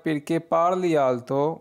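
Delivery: very slow, each syllable clear; slow model sentence. Shown as a demonstration. Teacher reading the Italian phrase for students, very slow. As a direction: read it out slowly for learners to repeat. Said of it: "ऊंचा क्यों बोलते हो".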